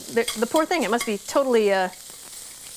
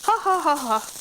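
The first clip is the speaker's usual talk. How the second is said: mock laughing; 3 semitones higher than usual. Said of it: "Mayor Dan Stewart of Plattsburgh was laughing".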